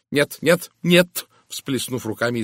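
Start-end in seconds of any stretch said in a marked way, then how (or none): 0.1-1.3 high, loud alarmed refusal; frightened cry. A narrator's reading. Miss Howard refuses to hear the name, frightened cry. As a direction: cry out in fright, rising with each word. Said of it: "испуганно закричала мисс Говард".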